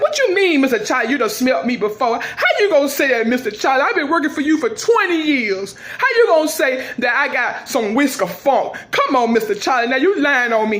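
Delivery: high laughing indignant plea; outraged protest. Acted.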